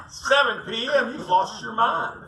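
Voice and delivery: high, slow, disbelieving; incredulous. Retold or imitated. Tired client balking at the guide's plan to fish late. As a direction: act like he's crazy for suggesting it. Speaker balks at fishing late.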